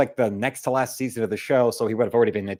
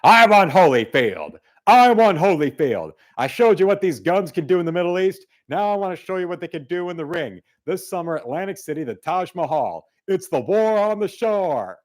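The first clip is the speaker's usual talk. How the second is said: higher, loud hyped boxing promo voice; mock Tyson fight promo; 4 semitones higher, 4 dB louder than usual. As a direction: sell the fight like a pumped-up boxer. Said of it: "Christopher says".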